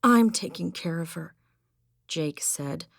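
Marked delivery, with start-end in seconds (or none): 0.0-1.3 louder, breath catching; faltering breath. Acted. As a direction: fight through heaving breaths. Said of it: "his chest heaving with each faltering breath".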